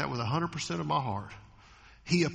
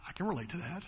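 ordinary talk, nothing marked

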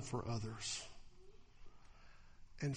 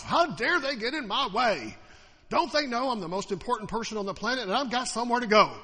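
loud, higher indignant driver yelling; mock road rage; 7 semitones higher, 8 dB louder than usual. Pastor imitating an angry driver for the church, mock yelling. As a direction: rant like someone cut you off. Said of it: "yelling at those people who cut us off".

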